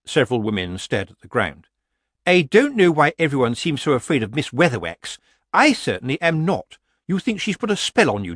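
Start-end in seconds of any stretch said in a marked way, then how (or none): 2.3-8.4 higher-pitched, indignant rival witch; haughty Missus Earwig. Acted. Missus Earwig dismisses fear of Miss Weatherwax, haughty and indignant.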